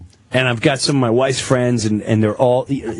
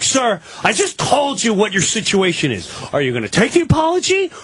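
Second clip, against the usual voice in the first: raised, fast, much higher exasperated cop voice; 4 semitones higher than usual. Retold or imitated. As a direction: snap it like an impatient officer. Exasperated cop repeating his ultimatum.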